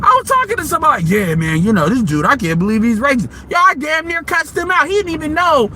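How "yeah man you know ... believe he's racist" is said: friend's voice, lower; casual lowered impression of a buddy; imitating a friend. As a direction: drop the voice low to play the friend.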